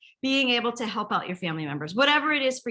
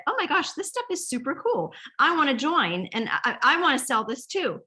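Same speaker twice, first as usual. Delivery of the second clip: excited gushing; 5 semitones higher than usual. Retold or imitated. Recruit's excited request at party.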